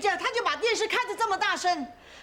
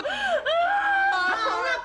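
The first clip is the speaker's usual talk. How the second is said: shouting to stop; 10 semitones higher than usual. Acted. Mother yells over the quarrel.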